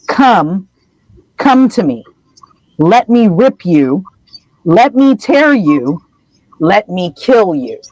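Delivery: slow, drawn-out menace with long pauses; chilling venomous voice. Acted. Disembodied voice calls to Harry, slow icy menace. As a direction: lure the prey in slowly, lightly sinister. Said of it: "ice-cold venom".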